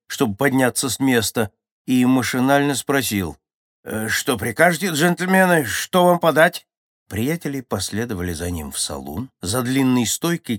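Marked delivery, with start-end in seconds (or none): 3.8-6.7 put-on old barman. A narrator's reading. Old barman wakes, answers mechanically.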